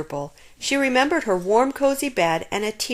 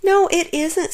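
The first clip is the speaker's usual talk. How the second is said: a little cross; 8 semitones higher, 4 dB louder than usual. A narrator's reading. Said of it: "feeling a little cross".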